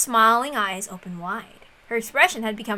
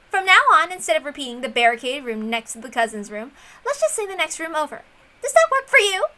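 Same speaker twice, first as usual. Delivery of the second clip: bright proposal; 5 semitones higher, 3 dB louder than usual. Acted. Erica proposing terms.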